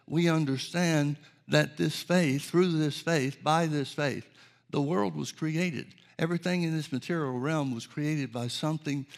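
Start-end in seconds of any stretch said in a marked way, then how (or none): 0.1-5.9 scripture reading. Acted. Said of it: "Hebrews eleven three says".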